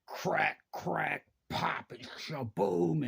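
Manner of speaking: punchy cracks, then a drawn-out boom; imitated tree crash. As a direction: act out the sound of timber breaking.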